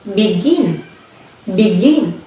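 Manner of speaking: "begin" with the weight on GIN; second-syllable stress. Shown as a demonstration. Teacher giving another example, "begin" stressed on GIN. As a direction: hit the second syllable of "begin", then fall. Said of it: "So we stress from begin".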